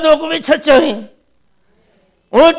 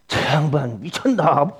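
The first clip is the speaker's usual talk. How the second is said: wife's remark; 10 semitones lower, 6 dB quieter than usual. Retold or imitated. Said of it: "우리 사모님이".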